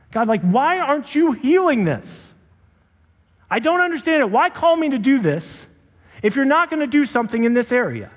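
high, strained cry at God, slowed; retold screaming at God. Pastor reenacts screaming at God in college, anguished yell. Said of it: "just screaming".

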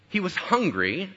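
ordinary talk, nothing marked

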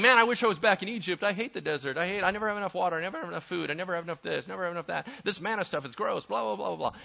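light, rattled-off griping; imitating chronic grumblers; mock complaining. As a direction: reel off a list of petty grievances. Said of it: "they're always complaining".

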